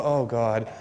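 low, mock-weary audience member; imitated dismayed groan. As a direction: lightly groan as a listener dreading the maths. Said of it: "that moment that makes you go".

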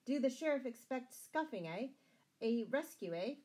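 lightly shrill, needling questions; shrill old palmer. A narrator's reading. Old palmer jeering at the guard, mildly shrill. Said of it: "exclaimed in a shrill, high voice".

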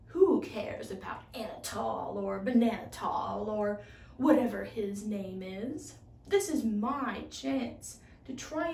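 a touch of scorn, sneering at the name; lightly voiced scheming inventor, sly and smug; scornful. Inventor sneering at the mouse to himself, mildly scornful.

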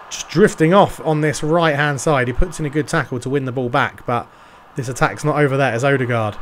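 lightly done play-by-play commentator voice; TV football commentary. Acted. Gamer narrating his FIFA match to viewers, light commentator style. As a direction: call the match like a TV pundit.

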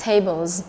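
"Tables" with the final s said as z; voiced Z ending. Shown as a demonstration. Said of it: "thì chúng ta sẽ phát âm là Z".

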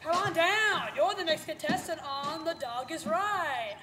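slow game show announcer call; drawn-out TV announcer; Rich Fields announcer voice. Retold or imitated. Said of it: "that's my Rich Fields impersonation".

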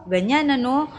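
normal talking voice

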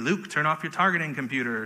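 lightly put-on British Obi-Wan accent; badly faked British wise mentor; terrible British accent. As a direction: do a poor, regal British accent. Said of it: "That was a terrible accent".

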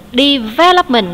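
Development with the second syllable, -vel-, punched; teacher demo, hit the -vel- in Development; stress on second syllable. Shown as a demonstration. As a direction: say Development clearly, leaning on -vel-. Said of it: "nhấn âm hai".

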